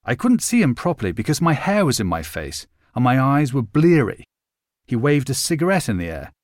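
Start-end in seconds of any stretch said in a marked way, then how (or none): none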